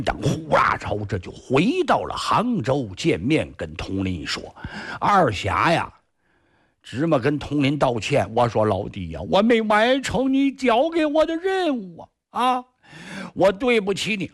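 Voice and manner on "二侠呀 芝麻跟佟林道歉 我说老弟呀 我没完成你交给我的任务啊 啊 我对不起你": 拔高嗓门，满怀歉意地诉说; 像没脸见兄弟似的赔不是; 愧疚道歉. A narrator's reading. 向同伴道歉的角色. (向老弟愧疚道歉，声音偏高)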